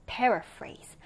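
"paraphrase" stressed on its first syllable, PAR-a-phrase. Shown as a demonstration. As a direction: hit the start of "paraphrase". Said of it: "첫 음절에 일 강세를 두고".

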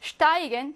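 슈타이겐 begun with a hushing sh; sh onset. Shown as a demonstration. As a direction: sound the st of 슈타이겐 as sht. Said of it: "처음이니까 슈트고요".

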